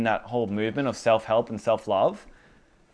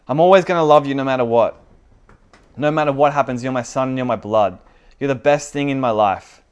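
fervent declaration; 6 dB louder than usual. Acted. Father declares love for son.

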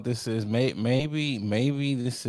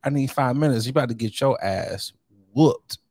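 mock threat; 4 semitones higher, 4 dB louder than usual. Mother threatens the doctor.

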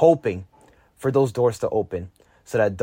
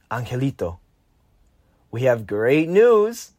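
slowly uttered; slower than usual. Retold or imitated. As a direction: stretch every word of the good news. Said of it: "My mother slowly utters the words".

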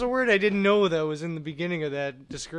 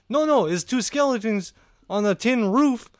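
louder, slow, insistent mock Russian joke; mock Russian painter; 5 semitones higher, 6 dB louder than usual. Retelling the painter's joke, loud, slow, hammed-up Russian accent. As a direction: repeat the punchline like he's sure it's funny. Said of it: "And he goes".

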